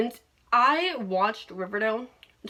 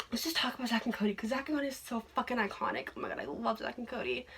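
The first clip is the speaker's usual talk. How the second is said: gushing; 10 dB quieter, faster than usual. Real, not acted. Gushing about the show.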